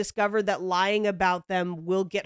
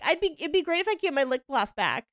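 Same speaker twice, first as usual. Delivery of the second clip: breezy laughing-off; 6 semitones higher, faster than usual. Retold or imitated. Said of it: "like, laughing".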